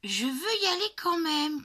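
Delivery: put-on loud, high, stubborn child's cry; child shouting. A narrator's reading. Little girl insisting to her dad on camping, shouting. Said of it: "crie Lulu Grenadine".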